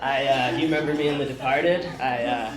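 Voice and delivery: lightly voiced Nicholson impression; Jack Nicholson. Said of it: "I'll start with Jack Nicholson".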